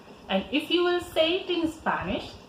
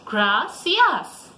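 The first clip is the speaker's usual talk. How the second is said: model word; 5 dB louder than usual. Shown as a demonstration. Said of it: "Repeat it after me".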